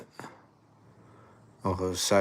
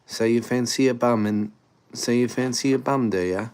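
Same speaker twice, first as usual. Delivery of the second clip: higher-pitched mock British accent; Pommy accent; 4 semitones higher than usual. Shown as a demonstration. Streamer trying out a Pommy accent on a cheeky line, mock British. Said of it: "Fancy a bum in a Pommy accent".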